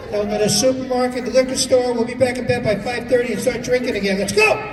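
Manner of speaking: psychotic father. Acted. Psychotic father waking family.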